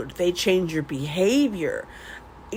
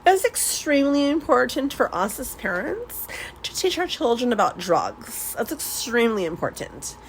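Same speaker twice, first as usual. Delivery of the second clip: mock-formal, higher "extremely important"; proper and businesslike; 3 semitones higher than usual. Shown as a demonstration. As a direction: put on a businesslike parent voice. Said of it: "I'm gonna get very proper and businesslike here".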